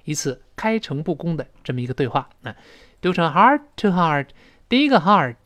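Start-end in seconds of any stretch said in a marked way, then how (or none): 3.3-4.3 "heart-to-heart" with the first heart's t held back; unreleased t. Shown as a demonstration. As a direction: hold the t of "heart", then go straight into "to heart". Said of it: "后面那个t失去爆破". (“heart-to-heart”第一个t失去爆破)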